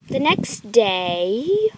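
slow, loud title-card announcement; stretched-out, booming caption read; time-skip announcer. Pretend. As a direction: announce the scene change, drawn out.

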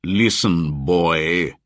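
loud, bullying call; a loud threat; shouting. A narrator's reading. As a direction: hunter shouting down the boy. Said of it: "shouted Buldeo".

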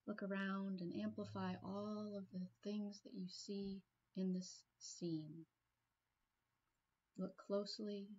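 calm meditation guide, long pauses between phrases; guided meditation. Real, not acted. Trainer guiding a listener into a peaceful place, guided meditation. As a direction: ease them gently into relaxing, leaving room to breathe.

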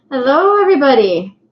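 loud, bright sing-song hello stretched on everybody; cheery livestream greeting. Real, not acted. Streamer greeting her live viewers, loud and cheery. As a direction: greet the whole chat with a big wave in the voice. Restarting greeting after webcam trouble.

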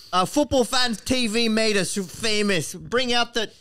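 lightly voiced player speech, slowed; footballer impression. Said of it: "I'll do one of his".

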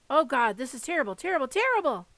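high, loud, rising despair; anguished child near tears; panicked cry. Acted. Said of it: "I cried".

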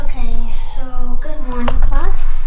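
loud class greeting; teacher greeting. Pretend. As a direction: call out to the class. Pretend teacher greets whole class.

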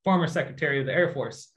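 dry and even, no rise; retelling a stranger's deadpan threat. Retold or imitated. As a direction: deliver it straight-faced, bone-dry. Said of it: "but deadpan".

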